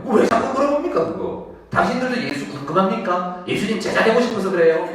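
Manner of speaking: mock-curious needling questions; teasing. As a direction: tease them with pointed questions. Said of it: "막 놀리듯이 말합니다".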